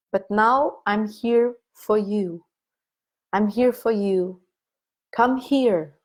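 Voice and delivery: put-on gentle comfort to the wounded inner child; tender reassurance. Shown as a demonstration. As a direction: speak like holding a small child. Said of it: "you tell to that child".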